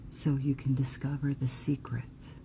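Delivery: soft, secretive whisper; hushed secret. Acted. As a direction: let them in on a secret, very quietly.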